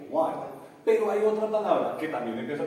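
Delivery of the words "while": "while" con vocal a, como "uail"; pronunciación contrastada. Shown as a demonstration. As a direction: di "while" sin confundirlo con "whale". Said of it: "pero no son iguales". (pronunciar "while" con a clara)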